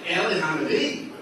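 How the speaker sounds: "Eli Hanavi?" asked through a laugh, with a rising question; amused, can't-believe-it echo; laughing disbelief. Real, not acted. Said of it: "And I'm laughing".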